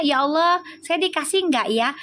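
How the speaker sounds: unsure, questioning prayer rising at the end; doubtful prayer. Shown as a demonstration. A viewer wishing for a reunion, praying with a hesitant question. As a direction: pray as if you doubt the answer. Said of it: "tapi doanya".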